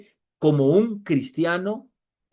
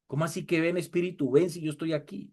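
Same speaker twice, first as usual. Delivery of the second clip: the Spirit within; 6 dB quieter, faster than usual. Retold or imitated. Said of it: "el Espíritu de pronto adentro diciendo".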